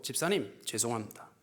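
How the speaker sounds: low, soft retold apology; hushed apology. Pastor apologises to the deacon couple, low and subdued. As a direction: apologise quietly, voice dropped right down.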